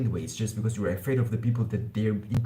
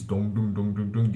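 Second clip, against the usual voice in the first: low dung. Shown as a demonstration. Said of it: "You learn how to do this".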